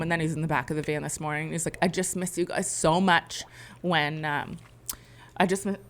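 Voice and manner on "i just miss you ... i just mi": real upset cutting the words short; getting choked up. Real, not acted. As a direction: falter and break off, close to tears. Upset parent breaks down quoting child.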